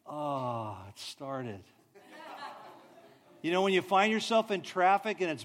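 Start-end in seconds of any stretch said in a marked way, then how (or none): 0.0-1.6 relieved ah. Pretend. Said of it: "it starts and it's a really cold morning".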